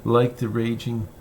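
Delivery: measured poetry reading, phrase by phrase with pauses; poem reading. Acted. Poet reads "Boyhood of a Dog" to listeners, measured recital. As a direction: read it as verse, unhurried, pausing at line breaks.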